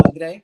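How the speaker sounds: Andre the Spanish way, tapped r; Latino Andre. Shown as a demonstration. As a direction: say Andre as ahn-DREH. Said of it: "because I am part Latino now".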